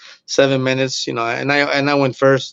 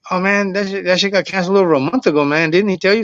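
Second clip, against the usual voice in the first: higher-pitched mock dismay; retold dismayed surprise; 6 semitones higher than usual. Manager telling comic the show was canceled, retold in higher-pitched dismay. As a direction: break awkward news with imitated disbelief, pitched up.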